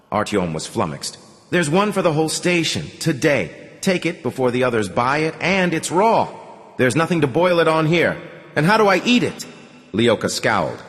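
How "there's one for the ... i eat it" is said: higher, complaining voice; flustered protest. Acted. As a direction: object in disbelief.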